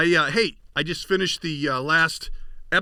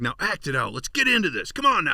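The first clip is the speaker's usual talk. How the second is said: mock director urging; 3 semitones higher than usual. Mock-directing a kid actor.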